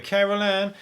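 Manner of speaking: high, held-out calling from inside the TV; imitated eerie high call; Poltergeist call. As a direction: call out a name like a ghostly film voice. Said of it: "and the one going".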